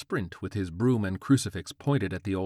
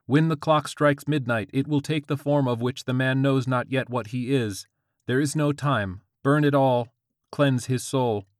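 high, loud urgent prophecy; crackling Siri voice; 6 semitones higher, 6 dB louder than usual. A narrator's reading. Siri warns George about midnight, loud urgent proclamation. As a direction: pronounce it in a raised commanding voice. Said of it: "Siri's crackling voice bounded out".

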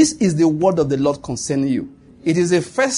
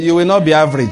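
louder shout, not stressed; loud declaration; 5 dB louder than usual. Shown as a demonstration. Pastor declaring over the congregation, loud shout. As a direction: shout it out as a decree. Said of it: "I feel like saying it".

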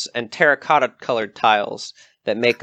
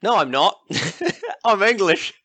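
laughing; 7 semitones higher than usual. Real, not acted. GM laughs at own slip.

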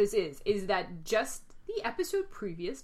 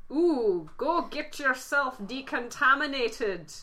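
lightly put-on Scottish brogue, slowed on the order; a hammy Scotty, half-hearted Scottish lilt; mock Scottish engineer, drawn out; bad Scottish accent; 4 semitones higher, 4 dB louder, slower than usual. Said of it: "That was a terrible accent".

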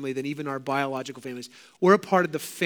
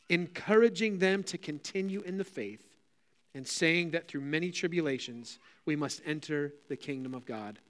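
measured public Bible reading; deliberate phrases, settling at verse ends; scripture reading. Acted. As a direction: read the passage through for the congregation. Reads scripture aloud.

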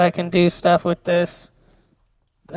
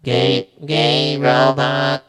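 robot voice; 4 semitones lower, slower than usual. Shown as a demonstration. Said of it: "can I do a robot?".

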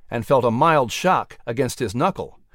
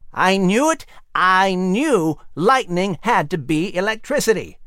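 higher, triumphant exclaim; excited exclamation; 4 semitones higher than usual. Acted. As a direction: crow with delight. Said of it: "Benjamin exclaimed excitedly".

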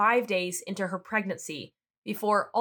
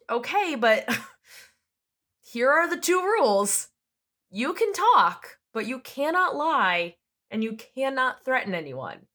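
exasperated judge; 2 semitones higher than usual. Retold or imitated. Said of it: "the judge said".

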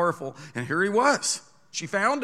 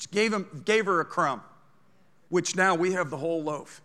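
ordinary delivery

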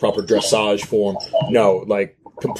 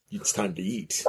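soft, eerie whispered line; creepy whisper; 6 semitones higher, 11 dB quieter than usual. Acted. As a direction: whisper it like a hungry voice in the dark. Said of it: "the voice starts whispering".

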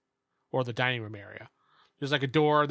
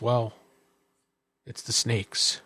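furtive innkeeper; 3 semitones lower, much slower than usual. Acted. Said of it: "He kinda looks around".

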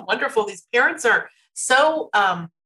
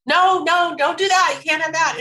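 a mildly raised, firm parental "No, no"; stern no; 6 semitones higher than usual. Retold or imitated. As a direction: snap out "No, no" like a strict mom. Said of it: "not saying".

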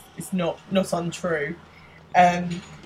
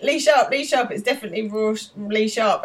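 mock shouted guess; 5 semitones higher, 4 dB louder than usual. Quiz guessers shouting answers.

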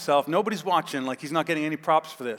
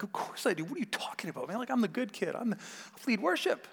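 put-on higher, defensive young self; self-righteous teen; 6 semitones higher, 7 dB quieter than usual. Younger brother answering his older brother, higher and defensive. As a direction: brush it off like the proud good kid.

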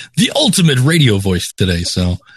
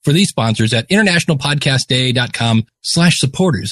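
radio announcer read. Acted. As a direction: sponsor read like a DJ. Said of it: "even in a crappy D J voice".

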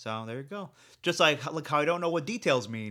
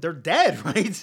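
loud mocking answer; 3 semitones higher, 10 dB louder, much slower than usual.

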